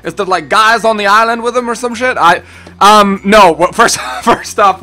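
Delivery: DJ Sebastian. Acted. Answering a viewer's question in a put-on character voice. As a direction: put on a high, accented character voice.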